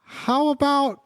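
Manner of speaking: dad voice rising high and slow on rollerblades; nervous dad reaching for a cool word; awkward dad voice. Acted. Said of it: "I like how you do my dad's voice".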